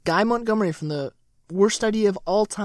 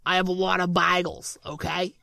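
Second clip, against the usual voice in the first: put-on New York accent; 3 semitones lower, 3 dB quieter than usual. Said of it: "that voice is getting on my nerves".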